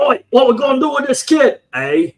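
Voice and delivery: put-on Aussie accent with a Canadian eh; hammed-up Aussie twang; Australian-Canadian accent. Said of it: "if Captain Boomerang joined, joined the Canadian Army".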